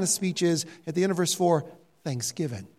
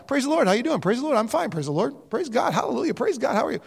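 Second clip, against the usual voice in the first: lightly mocked pious patter, mostly higher; Christianese small talk; 4 semitones higher, faster than usual. Preacher imitating a guy nobody could converse with, mild mockery. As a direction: chain the pious fillers like automatic greetings. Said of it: "We knew a guy that did that".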